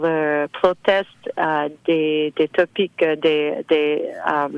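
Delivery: French spoken with an English accent; searching for words with an anglophone accent; foreign accent in french. Real, not acted. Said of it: "je m'excuse mon français". (accent anglophone en français)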